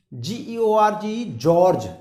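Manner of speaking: letters spelt very slowly, then जॉर्ज said firmly; slow spelling demo. Shown as a demonstration. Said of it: "जे की".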